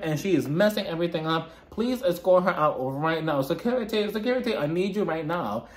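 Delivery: mock British accent, insistently calling for help; hammed-up British housewife demanding security; Meredith. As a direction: imitate an affected British accent, imperious. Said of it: "with a British accent all of a sudden".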